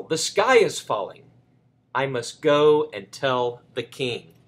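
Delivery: lightly voiced Chicken Little. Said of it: "said Chicken Little".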